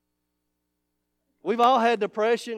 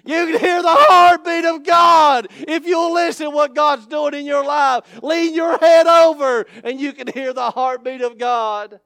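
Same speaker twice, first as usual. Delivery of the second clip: loud, high, shouted preaching climax; full-force preaching; 6 semitones higher, 11 dB louder than usual. Acted. Pastor shouting to the congregation about the Lord, full-force preaching. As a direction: holler it out like a revival preacher.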